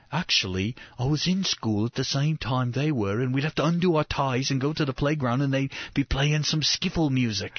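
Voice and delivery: imitated thick English accent. Retelling the guide's story about a famous band, imitated English accent. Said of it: "he had this real thick English accent".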